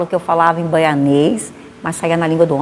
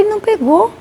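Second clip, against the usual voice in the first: dismayed; 12 semitones higher than usual. Retold or imitated. Man refused the leaflet.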